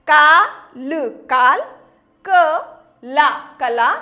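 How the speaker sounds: काल with a long का, then कला with a long ला; contrasting kaal and kala. Shown as a demonstration. Teacher comparing the two words aloud for children. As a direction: play काल against कला, stretching whichever vowel carries the sign. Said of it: "बोलने में कितना अंतर हुआ".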